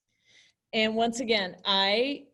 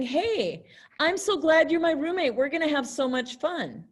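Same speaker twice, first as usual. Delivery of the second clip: higher, faster, eager welcome; excited; 5 semitones higher than usual. Shown as a demonstration. Teacher showing a happy roommate greeting. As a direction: sound thrilled about the roommate. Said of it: "could be saying".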